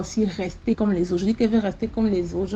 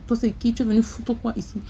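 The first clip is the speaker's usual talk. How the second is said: hostile demand. Retold or imitated. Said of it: "Elle me parle comme ça".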